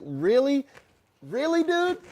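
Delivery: high, loud mock disbelief; hammed-up incredulous retort. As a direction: squeal it in exasperated disbelief. His incredulous reply to the rant.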